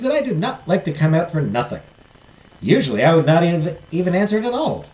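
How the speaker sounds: put-on fairy godmother explaining in a Southern accent; lilting Southern-accented fairy. Fairy warning the heiress it will not be easy, Southern accent. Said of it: "give her a southern accent".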